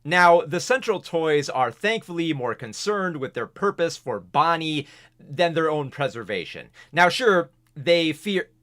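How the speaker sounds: breathless, short of air; pushing through with no breath left. Real, not acted. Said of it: "running out of breath here".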